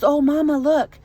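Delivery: mother imitates her daughter spotting the doll, excited childlike call; excited little girl.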